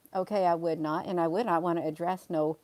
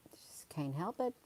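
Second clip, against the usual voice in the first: breathy confiding aside; whispered aside; 8 dB quieter than usual. Real, not acted. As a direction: whisper it to yourself.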